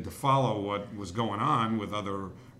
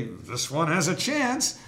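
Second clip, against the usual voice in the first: restrained home run call; 7 semitones higher, 5 dB louder, slower than usual. Retold or imitated. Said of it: "the reason I had to say".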